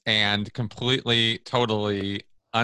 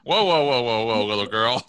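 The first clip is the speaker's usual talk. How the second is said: mock condescending; 4 dB louder than usual. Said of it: "Just to push your buttons".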